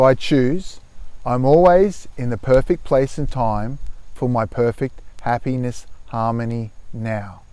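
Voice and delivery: measured affirmation, softening and dropping at the end; mantra recitation. Shown as a demonstration. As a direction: recite it deliberately, letting the close sink low. Repeats the mantra for viewers.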